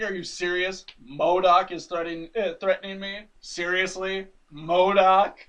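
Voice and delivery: mock disbelief, punched on the name; retold "you can't be serious" incredulity; incredulous retelling. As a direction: act out scoffing disbelief. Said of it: "just cracks up laughing, just losing it".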